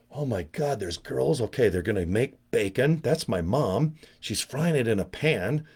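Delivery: put-on a boy whispering to himself, stunned; hushed kid awe. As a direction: hush it like a stunned third grader. Boy's thoughts on seeing girls.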